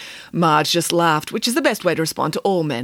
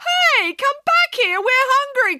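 higher, slow call after him; 3 dB louder, slower than usual. A narrator's reading. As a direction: call out across the garden. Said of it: "called Marge".

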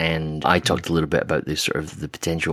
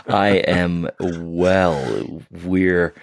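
slow, husky just-woke-up voice; rough early morning coffee voice; much slower than usual. Real, not acted. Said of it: "I'm loving your early morning coffee voice".

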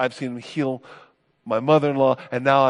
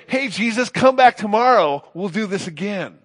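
mock casual brush-off; 7 semitones higher than usual. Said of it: "they don't say".

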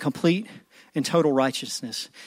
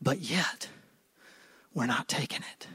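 sudden hush; 3 semitones lower, 12 dB quieter than usual. Real, not acted. Sudden drop after climax.

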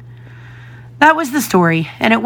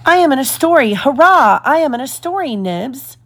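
much higher, delighted chirping; chirped; 6 semitones higher than usual. A narrator's reading. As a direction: bubble over with joy at being in the story. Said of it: "chirped Toodles".

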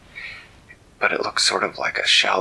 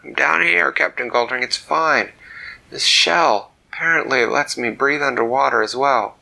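higher, loud call to the ship; yelling up; 5 semitones higher, 6 dB louder than usual. Acted. Dak yelling up from the water to the captain. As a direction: shout up to reassure them. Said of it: "Dak yelled up".

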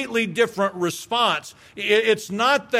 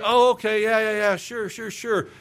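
brushing off spouse; 5 semitones higher than usual. Retold or imitated. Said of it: "omitted that through indifference".

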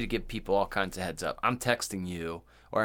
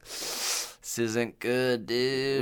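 joking delivery; much slower than usual. Pretend. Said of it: "I would try to make you laugh".

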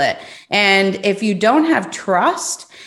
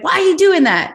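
much higher incredulous question; puzzled; 10 semitones higher, 3 dB louder than usual. Retold or imitated. Asking Susie about her questioning, high incredulous. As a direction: sound baffled by her method. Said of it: "And I was like".

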